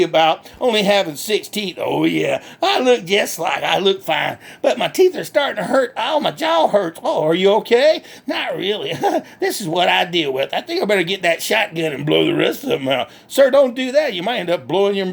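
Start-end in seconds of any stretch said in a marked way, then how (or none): 1.8-7.0 lightly voiced country hick, cheerful and boastful; redneck Bubba. Bubba on his teeth. 8.3-13.1 lightly voiced country hick, cheerful and boastful; redneck Bubba. Bubba answers.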